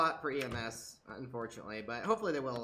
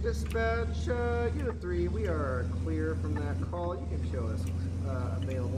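radio call to dispatch; police radio. Pretend. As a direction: report clear like on the radio. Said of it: "my radio talk".

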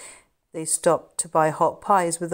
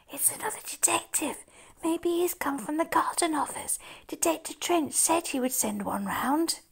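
hushed; 11 semitones higher, 3 dB quieter than usual. Acted. Hiding, explaining quietly.

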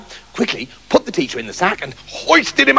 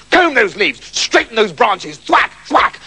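brisk, higher-pitched orders; bossy schoolmaster; 4 semitones higher than usual. Acted. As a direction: scold untidy pupils between whacks. Teacher ordering trees about.

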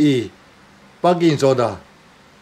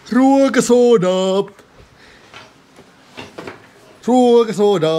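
high, loud drawn-out call; 7 semitones higher, 4 dB louder than usual. Acted. Man rummaging for heartburn remedy, calling out. Calls out the item twice.

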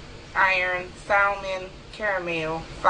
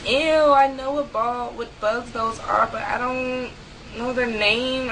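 grossed-out ew; 4 semitones higher than usual. Real, not acted. Grossed out by bug question.

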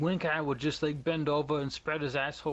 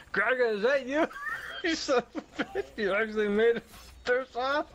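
excited greeting; 8 semitones higher than usual. Real, not acted. Friend spotting Gregor in the game, excited high greeting. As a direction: greet him like a long-lost buddy.

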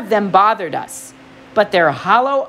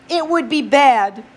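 higher, slow and earnest satyr; Grover voice; 4 semitones higher than usual. Acted. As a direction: nervously chime in. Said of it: "Grover added helpfully".

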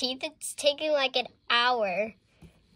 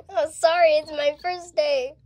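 flustered apology; 4 semitones higher, 11 dB louder than usual. Pretend. Flustered pretend dentist apologizes.

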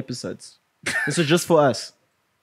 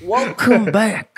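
drawn-out welcome; 6 semitones higher, 4 dB louder, slower than usual. Acted. Podcast host greeting.

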